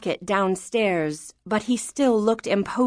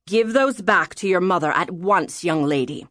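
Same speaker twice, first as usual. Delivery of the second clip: stern father; 2 semitones lower than usual. Acted. Father ordering daughter to return letters, mildly stern. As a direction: order it, lightly voiced as a father.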